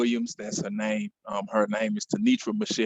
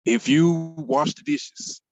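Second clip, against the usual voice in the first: much higher, slow coaxing parent voice; bargaining parent; 13 semitones higher, 4 dB louder, slower than usual. Acted. Parent bargains with a child over chores, high slow coaxing. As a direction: dangle the deal like a sweet-talking parent.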